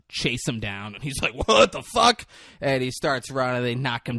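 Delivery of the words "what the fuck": high, loud mock alarm; acted shocked outburst; retold startled cry. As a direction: blurt it as if suddenly chased. Voicing man being chased.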